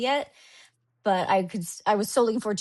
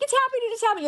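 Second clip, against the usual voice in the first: high, giddy, repeated cheer; retold excitement; 13 semitones higher, much faster than usual. Cheering herself on before the worker intervened, retold excitement. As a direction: chant it high like eager self-talk. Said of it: "it was like a record scratching".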